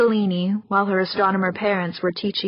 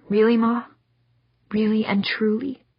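put-on higher, hopeful little girl; 3 semitones higher than usual. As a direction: ask like a child needing reassurance. Daughter hoping anxiously.

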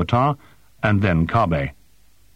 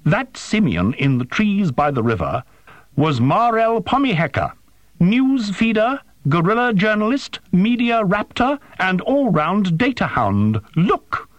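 high, heated tirade; outraged machine voice; agitated drone; 13 semitones higher than usual. A narrator's reading. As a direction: reel off the titles indignantly, pitched very high. Furious drone continues its tirade.

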